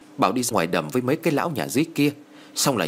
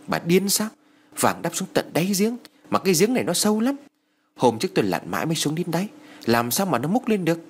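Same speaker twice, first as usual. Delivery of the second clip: scowling rebuke; 7 semitones higher than usual. A narrator's reading. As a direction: scold his wife for her foolish worry. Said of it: "Ông Hải cau mày nói".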